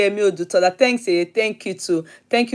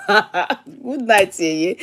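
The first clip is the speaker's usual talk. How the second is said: laughing; much slower than usual. Real, not acted. Laughing at a listener's comment.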